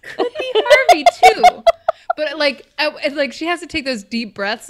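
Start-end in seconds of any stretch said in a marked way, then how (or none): 0.0-1.6 high, loud gravelly mock voice; a hammy raspy Harvey; Harvey Fierstein impression. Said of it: "you'd be like".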